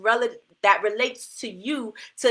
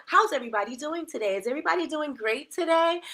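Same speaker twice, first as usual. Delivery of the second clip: polite telephone voice, lifting higher at the end; lightly put-on customer-service pitch; 5 semitones higher, 3 dB quieter than usual. Shown as a demonstration. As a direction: put on your proper phone greeting. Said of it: "that's my telephone voice".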